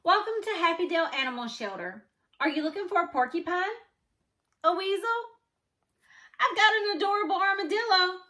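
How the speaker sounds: a lightly voiced pushy shelter man selling odd pets; eager shelter keeper. Shelter keeper pitches animals.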